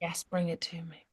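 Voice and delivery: playful whispered yes, bring it to me. Real, not acted. Friend whispering back across the group. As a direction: hush it like a secret request. Joking reply to offer.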